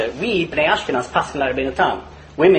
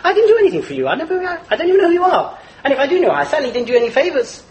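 mock angry; 6 semitones higher than usual. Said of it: "he's extremely angry".

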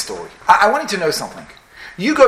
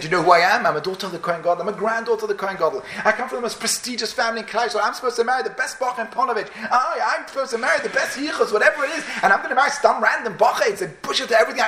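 plaintive complaint, climbing higher; acted tearful lament; 4 semitones higher than usual. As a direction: play a girl lamenting her lost standing, pitch rising. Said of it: "she's crying and she's saying".

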